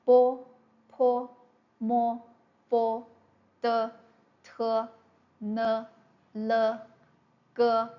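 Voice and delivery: each initial said slowly and crisply, "bo", "po", "mo"; reading initials. Shown as a demonstration. Teacher reciting Mandarin initials for students, clear and measured. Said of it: "There are twenty-one initials".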